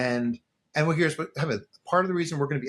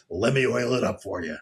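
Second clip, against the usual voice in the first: laughing sarcasm; 3 semitones lower than usual. Real, not acted.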